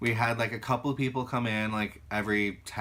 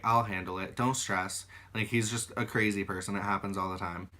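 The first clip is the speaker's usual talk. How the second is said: lower, calming manager voice; retold reassurance; 4 semitones lower, 4 dB quieter than usual. Manager soothing a stressed worker about a customer, reassuring. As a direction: play down the fuss, low and easy.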